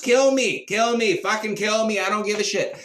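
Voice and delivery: yelled high and loud, daring them to do it; defiant shout. Acted. Socrates defying the Athenians, shouting high and loud. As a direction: hurl it at the crowd as a challenge.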